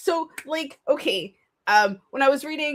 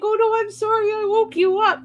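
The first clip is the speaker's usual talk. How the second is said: giddy apology; 11 semitones higher than usual. Retold or imitated. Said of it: "I'm just like".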